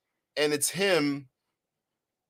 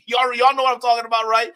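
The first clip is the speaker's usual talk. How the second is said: laughing; 5 semitones higher, 7 dB louder than usual. Real, not acted. Laughing at audience.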